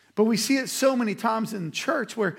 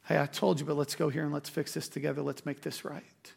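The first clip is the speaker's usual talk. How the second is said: softer, lower, kindly told-you; gentle reassurance; 4 semitones lower, 6 dB quieter than usual. Retold or imitated. Believer to a struggling friend, gentle and reassuring. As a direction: ease off and invite them back, quietly. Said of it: "to bear with one another means".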